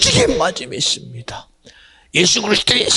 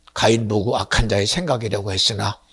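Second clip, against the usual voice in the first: normal talking voice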